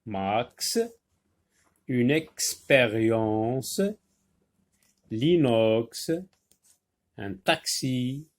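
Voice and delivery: each word drawn out slowly for pupils; slow word reading. Shown as a demonstration. Teacher reading the word list aloud to her class. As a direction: read the list slowly and clearly. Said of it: "les mots où la lettre X se prononce X".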